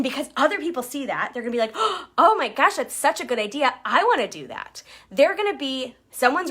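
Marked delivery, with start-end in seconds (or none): 1.7-4.8 gasping, bright mock-excited team member. Teammate gasping at a great idea, excited. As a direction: gush like you just saw a great idea.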